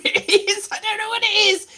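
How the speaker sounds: lightly squeaky puppet voice; going outside voice. Pretend. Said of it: "It's my going outside again voice".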